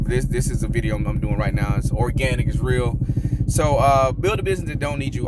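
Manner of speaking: yelling over helicopter. Real, not acted. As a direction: talk loud over the noise. Helicopter passing overhead while filming.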